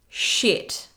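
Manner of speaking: breathy whispered curse of realisation; hushed dismayed swear; whispered shock. Retold or imitated. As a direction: mouth it, caught out. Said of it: "were they likely to be like".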